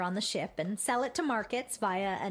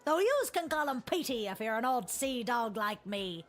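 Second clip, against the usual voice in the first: pirate voice. Acted. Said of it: "that stupid voice".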